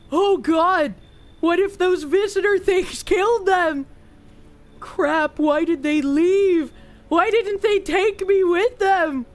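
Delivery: lightly voiced dim-witted boy, worried and lost; dumb voice. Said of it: "I gave him a dumb voice".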